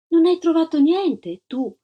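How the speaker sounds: with kindness. A narrator's reading. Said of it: "con garbo".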